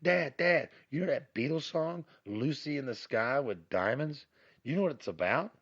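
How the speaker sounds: a light imitation of an eager daughter. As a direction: pester dad excitedly. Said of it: "my daughter came to me and she goes".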